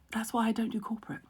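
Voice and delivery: soft unvoiced muttered aside; whispered aside. Imitating executives at the back, whispering their disapproval. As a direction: whisper it like a shocked exec. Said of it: "these faces at the back go".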